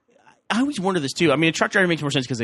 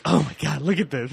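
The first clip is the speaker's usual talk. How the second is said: slightly raised, lightly voiced gawking tourist; imitating an amazed visitor from New England; mock gawking tourist; 3 semitones higher than usual. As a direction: gawk like you're at the zoo, lightly mocking. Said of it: "act like they're visiting the zoo".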